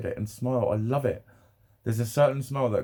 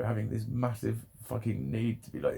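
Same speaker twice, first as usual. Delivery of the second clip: usual speaking voice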